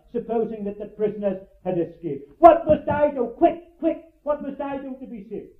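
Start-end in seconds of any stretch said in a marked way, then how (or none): 2.4-5.5 urgent cry, a touch higher, hurried at Quick, quick; a hint of the desperate jailer, sword drawn; desperate plea. Jailer at his wit's end begging, urgent plea. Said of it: "Here was a man who was going to kill himself".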